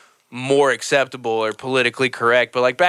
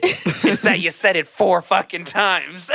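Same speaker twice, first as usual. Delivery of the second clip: laughing; 5 semitones higher, slower than usual. Retold or imitated. Laughing at comic.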